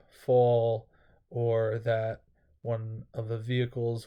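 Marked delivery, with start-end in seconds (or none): 0.1-0.9 voice crack. Real, not acted. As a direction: voice cracking on the word. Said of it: "voice crack right there".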